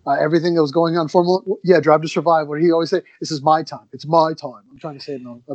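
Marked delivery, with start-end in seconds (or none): 3.2-4.6 a lightly put-on Australian accent; bad Australian accent. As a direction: do a weak Australian accent, half-hearted. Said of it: "a bad Australian accent".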